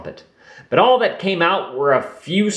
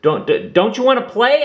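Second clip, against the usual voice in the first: shy little creature; 11 semitones higher, 3 dB louder, faster than usual. A narrator's reading. Shadowy voice asks Roo.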